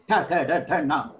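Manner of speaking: "Ta, tha, da" tapped on the upper palate; retroflex sounds. Shown as a demonstration. Teacher repeating murdha row, retroflex. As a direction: hit the upper part with each "Ta, tha, da". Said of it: "hitting on the upper part like this".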